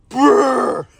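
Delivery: shivering brr from the cold. Real, not acted. Cold outside, ears burning.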